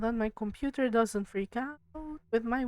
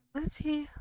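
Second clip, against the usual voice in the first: whispering; 5 semitones higher, 6 dB quieter than usual. Real, not acted. Spooked after eerie whisper.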